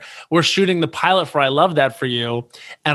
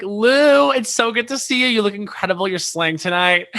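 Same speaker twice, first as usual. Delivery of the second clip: much higher, starstruck fangirl voice; gushing drunk fan; 6 semitones higher than usual. Retold or imitated. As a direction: gush at her like a tipsy superfan.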